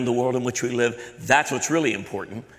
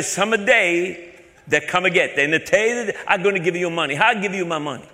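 mock-naive caller; 4 semitones higher than usual. Put-on caller voice continues.

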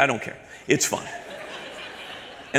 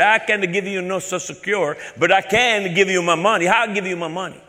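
mock-naive caller; 5 semitones higher than usual. Put-on caller answering scammer.

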